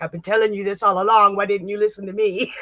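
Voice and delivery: quick, exasperated husband voice; husband scolding his wife; imitating husband. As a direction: rattle it off like a fed-up husband. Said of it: "he's like".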